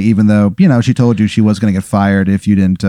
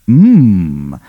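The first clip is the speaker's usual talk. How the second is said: mock yum; 3 semitones lower than usual. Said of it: "comes along and goes".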